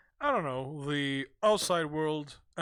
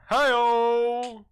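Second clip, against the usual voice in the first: hi-oh cheer; 5 semitones higher, 8 dB louder than usual. Acted. Punchline rimshot cheer.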